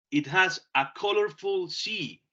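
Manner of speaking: very slow, word-by-word dictation; slow model sentence. Shown as a demonstration. Teacher dictates an example sentence to students, very slowly. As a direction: say each word slowly so students can copy. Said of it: "teacher models sentence slowly".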